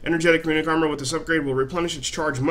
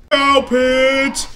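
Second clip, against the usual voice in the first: higher, louder cry of cow pit; high excited yell; excited shout; 10 semitones higher, 8 dB louder than usual. Real, not acted. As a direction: shout out the discovery. Excited discovery.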